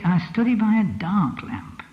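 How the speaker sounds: slow, with study stressed; study stressed, line slowed. Shown as a demonstration. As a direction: push the word study. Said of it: "Or did she say".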